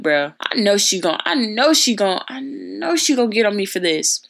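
rising, hammed-up dread; retold scared. Student dreading the principal's reaction, mock fear. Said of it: "very scared 'cause I was like".

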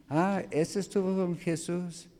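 high, light mock accusing woman. Woman at the fire accusing Peter, high and mock. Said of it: "una mujer".

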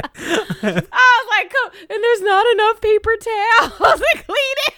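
high, laughing resignation. Retold or imitated. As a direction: giggle out the sarcastic cool. Mom retelling her reaction.

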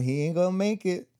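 lightly voiced sassy coyote in an odd put-on accent. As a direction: give the circling coyote a light sassy twang. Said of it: "I don't know what accent that was".

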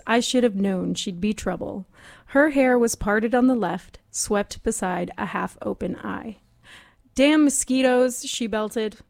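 hard-boiled detective read; noir narration. Acted. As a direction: read it like a pulpy noir voice-over. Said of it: "In the style of noir".

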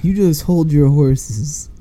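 slow, mock old-West cowboy drawl. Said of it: "to a fucking cowboy".

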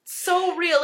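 ordinary talk

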